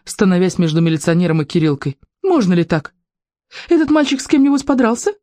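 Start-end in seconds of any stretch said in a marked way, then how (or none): 2.2-5.1 high, indignant challenge; angry questioning. A narrator's reading. A mother challenges the policeman, angry. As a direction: demand it with rising indignation. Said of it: "сердито вскричала мама".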